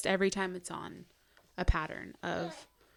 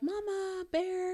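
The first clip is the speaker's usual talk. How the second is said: put-on gently asking child; 11 semitones higher, slower than usual. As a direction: mimic a little kid asking nicely. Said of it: "But when Little Bear, he'll be like".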